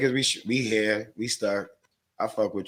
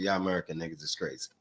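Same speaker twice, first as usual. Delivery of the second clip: put-on African accent; 7 semitones lower, 11 dB quieter, faster than usual. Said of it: "the way he said it with his African accent".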